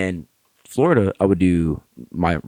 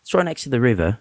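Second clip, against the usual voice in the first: put-on British accent; 4 semitones higher than usual. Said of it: "I'm getting that shit from Brooklyn".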